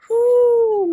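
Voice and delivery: high, loud whoop of amazement; real burst of excitement; excited whoo. Real, not acted. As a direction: let out a real thrilled whoo. Overwhelmed by long high whistles.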